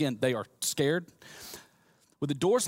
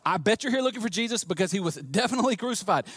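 raised Southern voice; folksy Southern angel, higher than usual; 4 semitones higher than usual. Acted. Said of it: "It's in the New Southern Translation".

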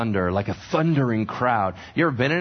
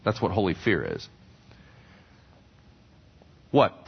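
ordinary talk

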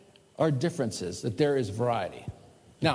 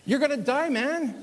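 blunt warning; 11 semitones higher than usual. Real, not acted. Blunt punchline to congregation.

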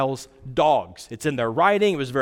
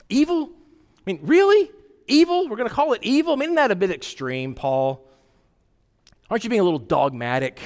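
mock incredulous objection; 4 semitones higher, faster than usual. Mock objector questions Paul.

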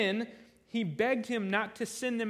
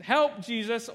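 a sudden loud, frightened yelp; panicked cry for help; 2 semitones higher, 6 dB louder, slower than usual. Pretend. Disciple hiding behind Jesus, loud mock panic.

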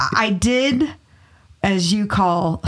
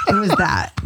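laughing whisper. Real, not acted. Laughing after whispered quote.

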